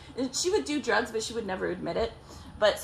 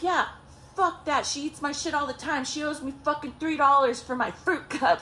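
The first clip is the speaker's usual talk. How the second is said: raised-pitch mock grievance; retold indignant rant; 5 semitones higher than usual. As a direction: imitate his worked-up complaining, pitched up. Ex rants about fruit cups.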